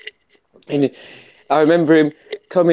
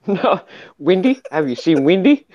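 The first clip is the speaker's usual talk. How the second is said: imitated South African, a little higher; South African accent; 3 semitones higher than usual. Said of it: "He was from South Africa".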